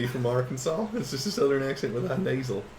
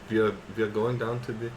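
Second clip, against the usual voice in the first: attempted German accent. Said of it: "Trying to think of a German accent".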